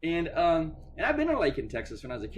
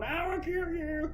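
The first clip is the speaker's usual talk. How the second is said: mock threat; slower than usual. Threat letter read out.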